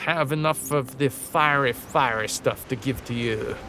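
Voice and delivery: mock French accent, slow and formal; hammed-up French accent. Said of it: "Flawless accent".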